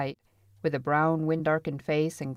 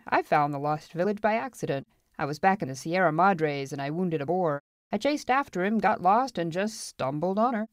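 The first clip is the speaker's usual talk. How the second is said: boastful gold finder; 3 semitones higher than usual. Acted.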